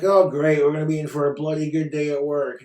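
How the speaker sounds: a fed-up worker moaning; sarcastic complaint. Retold or imitated. Imagined cleaner's sarcastic complaint.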